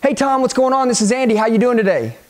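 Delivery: casual hello to someone you know; easy, friendly phone opener; familiar greeting. Shown as a demonstration. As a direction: greet him like an old buddy. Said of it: "greet them like you already know 'em".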